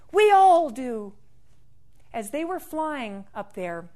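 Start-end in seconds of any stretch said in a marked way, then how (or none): 0.1-1.1 higher, slow, louder bird voice. Acted. Bird replying to the leprechaun mid-flight, high and slow. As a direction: answer from on high, drawn out. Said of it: "And the bird said".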